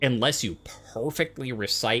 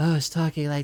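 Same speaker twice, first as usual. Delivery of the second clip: low, lower-pitched whispered voice; 4 semitones higher, 3 dB louder than usual. Showing the second whispered layer voice: lower-pitched whisper. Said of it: "one was lower pitched".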